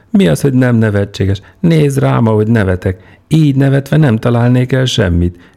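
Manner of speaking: high, loud and wound up; excited shouting. Acted. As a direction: crow it out, near hysterical. Peter shouting while laughing wildly.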